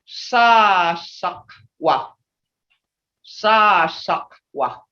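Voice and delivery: "Sa, shakwa" split with a pause after "Sa"; careful Muskogee word. Shown as a demonstration. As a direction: say "Sa" then drop into "shakwa". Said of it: "what it really originally is".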